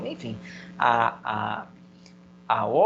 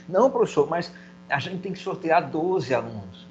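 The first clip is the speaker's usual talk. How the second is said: imagined student objecting; 3 semitones higher than usual. Pretend. Teacher voices an objecting student.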